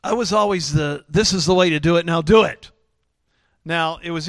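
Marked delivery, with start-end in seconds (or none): 1.1-2.7 loud, firm order; stern command. Retold or imitated. Father laying down the law to his kids, stern. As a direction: lay down the law. Voicing himself as strict father.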